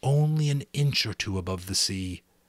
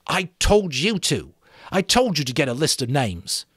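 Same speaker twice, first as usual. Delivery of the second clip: put-on louder, raised boy voice; Ralph voice; 7 semitones higher, 7 dB louder than usual. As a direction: voice Ralph, firm.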